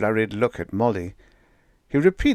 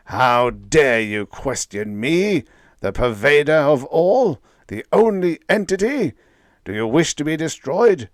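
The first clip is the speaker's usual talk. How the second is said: menacing cosmic voice; 7 semitones higher, 7 dB louder than usual. A narrator's reading. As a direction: pronounce doom on tiny creatures. Voice rages on.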